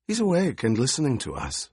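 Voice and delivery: a sly, knowing crone; old crone voice. A narrator's reading.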